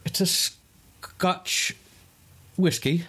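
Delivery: breathy, high Scottish brogue; mock Scottish accent. Telling his co-host what he's drinking, mock Scottish. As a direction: put on a hammed-up Scottish voice.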